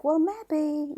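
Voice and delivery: high-pitched, tentative concession; wavering thought. Retold or imitated. Co-host recalls coming round to the claim, high and tentative. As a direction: lift it high, as if half persuaded. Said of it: "then I was like".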